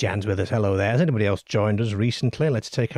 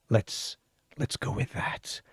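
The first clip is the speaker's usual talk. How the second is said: whispered aside; 3 semitones higher, 8 dB quieter than usual. Real, not acted. Conspiratorial aside about déjà vu.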